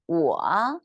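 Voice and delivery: "我" dipping low, then rising; careful third-tone "我" for learners; demonstrated Mandarin tone. Shown as a demonstration. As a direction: dip and lift through a drawn-out "我". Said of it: "learn a sentence".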